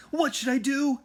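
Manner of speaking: high, loud cry of panic; scared out of his wits; panicked question. A narrator's reading. Jack panics as T-Rex approaches.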